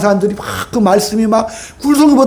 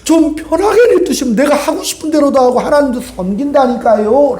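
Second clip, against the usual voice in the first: higher-pitched mock plea; imitated tearful pleading; 5 semitones higher than usual. Preacher voices Israelites pleading with God, imitated tearful pleading. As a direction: whine lightly as a retold complaint. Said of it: "하나님 앞에 울어요".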